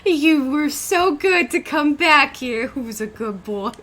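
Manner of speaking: slow cooing pet voice; baby talk. Retold or imitated. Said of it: "she about to be like".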